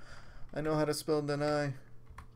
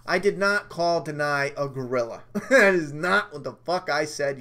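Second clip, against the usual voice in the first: indignant protest; 6 dB louder than usual. Real, not acted. Denying he said gorilla.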